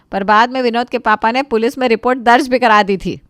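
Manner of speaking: unvoiced whispered aside; whispering the final twist. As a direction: breathe it in a whisper. Whispered line in story.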